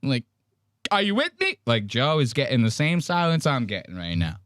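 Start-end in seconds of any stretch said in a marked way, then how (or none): 0.0-1.6 higher pleading Joe; lightly voiced, pleading for agreement; mimicking Joe. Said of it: "has the hands out like he's going".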